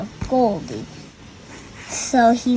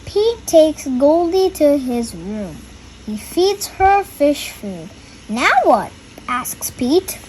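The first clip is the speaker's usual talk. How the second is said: put-on reading to children. A narrator's reading. Reads the picture book aloud.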